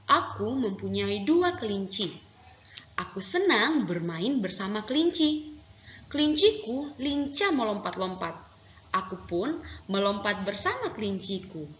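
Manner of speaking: put-on lively recital of a child's poem about pet rabbits, with rising and falling tune; expressive poem reading. Shown as a demonstration. Teacher demonstrating poem reading to pupils, cheerful recital. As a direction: read it like a happy child showing off bunnies. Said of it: "begitu ya contoh membaca puisi".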